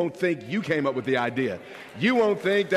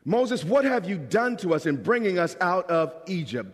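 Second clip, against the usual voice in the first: mock accusing whine at Moses; a hint of griping people blaming their leader; whiny complaining Israelites.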